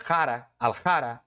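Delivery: "jara, aljara" with the al barely sounded and ja strong; nearly silent al. Shown as a demonstration. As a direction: swallow the al of "aljara", leaving mostly jara. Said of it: "o al é quase mudo".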